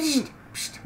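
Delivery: whisper. Real, not acted. Hushing the partner.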